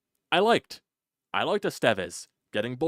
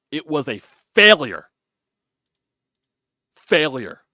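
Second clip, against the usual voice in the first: angry shout; 5 semitones higher, 12 dB louder, slower than usual. Real, not acted. Fan slamming the trade deadline.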